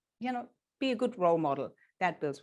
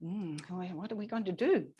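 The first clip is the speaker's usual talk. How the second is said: puzzled thinking aloud. Shown as a demonstration.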